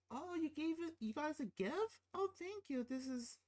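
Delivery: high, fake-sweet put-on voice; hammed-up high-pitched wife; mock ungrateful wife. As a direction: mimic her phony gratitude. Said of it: "she's ungrateful for the gift".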